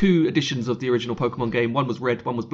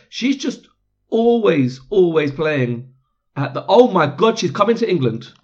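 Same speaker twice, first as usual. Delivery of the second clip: excited; 4 semitones higher, 5 dB louder than usual. Real, not acted. Sudden excited discovery.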